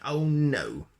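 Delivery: aghast at the bathroom; gasping dismay. Acted. Mister Fussy seeing the messy bathroom, aghast and high. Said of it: "he gasped".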